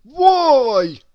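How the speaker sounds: loud gruff glutton; greedy character. Acted. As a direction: bark it out high. Mister Greedy voiced in story.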